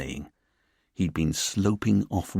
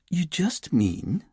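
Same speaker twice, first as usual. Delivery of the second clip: slow, higher, tactful prompt; gently rescue him from awkwardness; smoothing over; 9 semitones higher, much slower than usual. Acted. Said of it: "smoothing over Richard's awkwardness".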